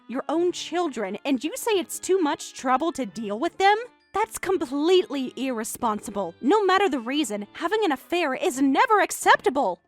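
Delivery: high, rising reproach; indignant scolding. Acted. Wife scolding her husband for betraying the family, indignant. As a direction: build from reproach to a loud, firm verdict.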